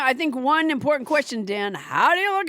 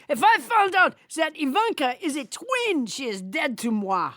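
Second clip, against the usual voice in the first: French Trump voice. Acted. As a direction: keep the French Trump puppet going. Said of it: "French Trump would disown her".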